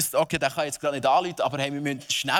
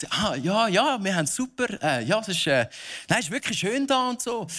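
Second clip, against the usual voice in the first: hammy stage actor; 4 semitones higher than usual. Pretend. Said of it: "theatralisch zu spielen".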